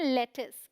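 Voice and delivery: लेटिस said as "LET-is"; short second syllable in लेटिस; teacher's model of लेटिस, ending "-is"; correct pronunciation. Shown as a demonstration. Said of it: "but लेटिस बोलते हैं".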